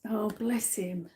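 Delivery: soft, slow and hushed; tender sympathy. Real, not acted. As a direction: murmur it tenderly, taking your time. Moved by the spirit's message.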